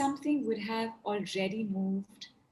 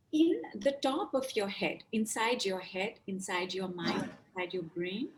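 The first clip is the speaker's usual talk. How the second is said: guided meditation. Acted. Guided inward focus, fading softer.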